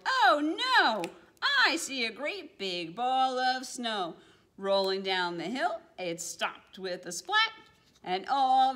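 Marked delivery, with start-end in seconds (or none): 0.0-4.1 high, loud mock cry of alarm; a playful startled yell. Penguin spotting the snowball, playful yell. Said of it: "One looked up and yelled".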